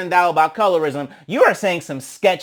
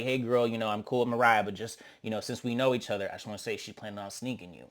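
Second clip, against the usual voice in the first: confiding murmur; 7 semitones lower, 12 dB quieter, faster than usual. Retold or imitated. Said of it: "It's like".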